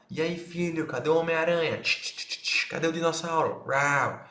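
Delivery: put-on talking to a toddler. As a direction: play with the little kid, teasing and bright. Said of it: "O que é que você vai falar?".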